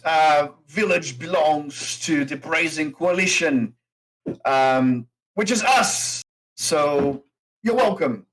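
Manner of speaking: lightly voiced gruff orc; a hint of a proud orc boss; orc innkeeper. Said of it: "the orc goes".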